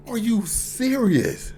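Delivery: slow, drawn-out voiced disbelief; incredulous, stretched out; stunned disbelief. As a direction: let the shock land slowly. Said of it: "I'm just like".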